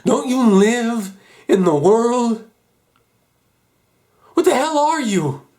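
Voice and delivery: loud, high, outraged demand; furious challenge. Acted. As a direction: hurl each question as an accusation. Furious confrontation with the father.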